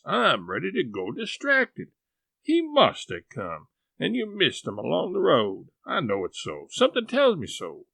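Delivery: rising, fretful worry; she's sure something's wrong; mildly frantic old aunt; distraught aunt. Acted. Sally distressed.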